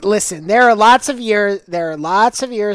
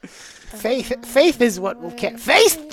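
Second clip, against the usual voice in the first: grand, proclaiming herald voice; dramatic herald voice. Acted. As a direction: announce it like a royal herald. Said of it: "keep using that voice".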